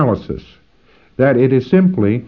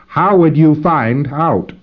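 slow, drawn out question; 4 semitones higher, slower than usual. Shown as a demonstration. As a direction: stretch each word slowly. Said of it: "your trained response is really this".

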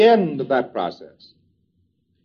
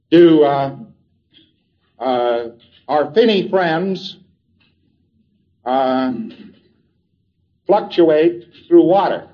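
slow puzzling wording; slower than usual. Shown as a demonstration. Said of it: "That's a communication bridge".

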